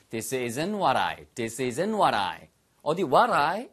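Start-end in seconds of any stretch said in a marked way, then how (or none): 0.1-2.5 very slow, clear model phrase; drilled slowly for repeating; slow model sentence. Shown as a demonstration. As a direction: spell it out slowly for learners. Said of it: "이렇게 뒤에 동작 쓰시면 되겠어요".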